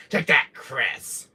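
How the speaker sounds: very slow villain taunt; Wesker voice. Acted. Streamer taunting Chris as his villain, very slow. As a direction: spit the taunt out slowly. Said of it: "I love doing my Wesker voice".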